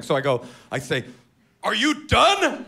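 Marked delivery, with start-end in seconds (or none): 1.6-2.6 high, slow, prim asking; imitating himself mid-choke; mock polite question. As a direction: ask it sweetly like a butler.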